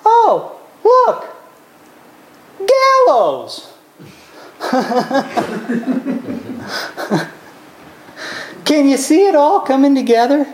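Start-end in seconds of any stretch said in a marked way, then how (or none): 0.0-3.7 a servant noticing it lightly, the last word sinking; offhand eunuch. Retold or imitated. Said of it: "and he says". 4.6-7.2 soft chuckle at the irony; a quiet laugh at the story; amused laugh. Real, not acted.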